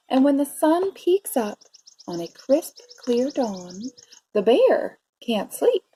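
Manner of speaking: measured read-aloud with drawn-out key words; story narration. A narrator's reading. Teacher reading a bear story to preschoolers, expressive narration. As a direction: savour the rhymes for young listeners. Reads picture book to children.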